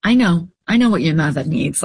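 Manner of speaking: lightly imitated New York doctor; quick, reassuring reply in a hinted New York accent; touch of a New Yorker's accent. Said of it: "like, with his accent".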